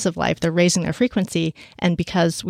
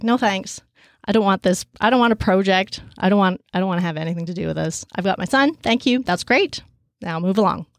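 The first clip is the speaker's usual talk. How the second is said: dismissive refusal. Retold or imitated. Refusing the beings.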